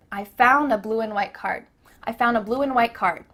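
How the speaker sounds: "found" as "foun", "and" as "an"; linked sentence, unreleased d; cut-off D. Shown as a demonstration. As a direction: hold back the d in "card". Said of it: "cut off the letter D".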